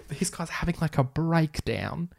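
cracking up mid-sentence, high and squeaky; laughing. Real, not acted. Reader laughing at the tape scene. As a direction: laugh through the words in disbelief.

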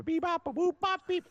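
high beeping robot chirps; toy robot voice. Pretend. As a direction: beep like a little toy robot. Robot theme jingle again.

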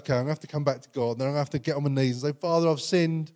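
fast, grudging run-through; reluctant grudging plan. Retold or imitated. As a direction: rattle it off like a chore you dread. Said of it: "this is often our attitudes, like".

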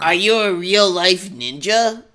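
a slow, lightly voiced whiny boy; Chris voice. Shown as a demonstration. Reader tries Chris's voice for his friend, slow and dopey. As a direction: ask it slowly like a dopey kid. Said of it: "do that voice again".

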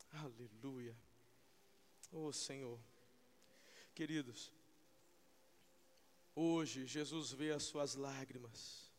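soft, low, slow murmur; almost breathe it out; hushed worship. Real, not acted. Preacher hushing the church in worship, soft and low.

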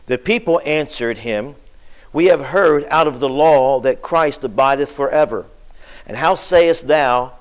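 scripture reading. Acted. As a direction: proclaim the old words steadily.

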